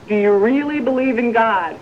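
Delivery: a hint of a solemn heavenly voice; voice from above. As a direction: stretch out "really" like a voice from the sky. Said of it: "a voice from up there says".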